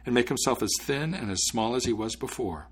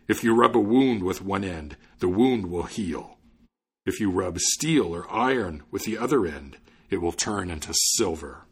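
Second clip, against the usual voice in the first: deliberate, forceful giant voice; imposing spirit; 2 semitones lower, 3 dB louder than usual. Acted. Giant spirit handing the student magic cloth, solemn and imposing. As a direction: pronounce the magic instructions with weight.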